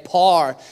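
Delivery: "par" as one long syllable; one drawn vowel in "par"; Northern Irish pronunciation. Shown as a demonstration. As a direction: say "par" for power, Irish-style. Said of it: "especially when you say".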